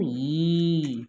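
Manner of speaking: "ஈ" held long; long vowel. Shown as a demonstration. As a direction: stretch "ஈ" out as a model for pupils. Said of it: "எப்படி உச்சரிக்கணும்?". ("ஈ" நெடிலாக, நீட்டி)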